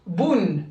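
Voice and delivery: "Boun" as one syllable ending on a sounded n; closed syllable. Shown as a demonstration. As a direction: say "Boun" with the final n voiced. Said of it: "Comment ça se prononce?".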